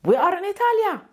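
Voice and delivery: put-on high little girl voice; child voice. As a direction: imitate a small daughter pleading. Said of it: "She tells me".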